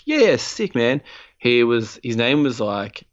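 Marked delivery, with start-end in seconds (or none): 0.0-1.0 high mock kid voice agreeing eagerly; imitating Con. Retelling how Con agreed to the swap, high mock voice. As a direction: pitch it way up as the scheming kid. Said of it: "And he's like".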